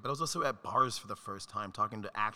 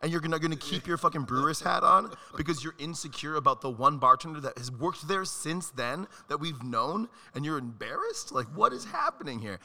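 mock rant; 4 semitones higher, 6 dB louder than usual. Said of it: "I'm like".

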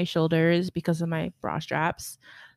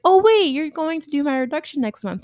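higher and louder, catching on; surprised realisation; 8 semitones higher, 8 dB louder than usual. Retold or imitated. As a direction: blurt it out as it clicks, pitch up. Realises who he is.

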